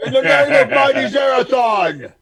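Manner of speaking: mock holy invocation. Player invokes deity before roll.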